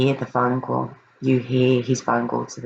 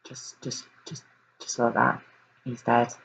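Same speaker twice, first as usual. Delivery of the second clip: barely voiced, much softer, words falling away; stunned hush; 3 semitones lower, 6 dB quieter than usual. Real, not acted. Host reeling at the news of Breck's death, hushed. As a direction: let it drop to a near-whisper in shock.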